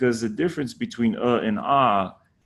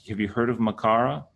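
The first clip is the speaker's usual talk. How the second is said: ordinary talk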